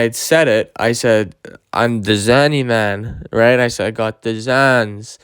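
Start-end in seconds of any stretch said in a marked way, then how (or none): 1.7-3.3 drugged-out talk. Retold or imitated. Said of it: "I was saying it like that 'cause I was so fucked up". 3.9-5.2 drugged-out talk. Retold or imitated. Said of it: "I was saying it like that 'cause I was so fucked up".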